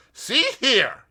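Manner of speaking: loud, high warning; a sudden suspicious challenge; suspicious American. A narrator's reading. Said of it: "he declared".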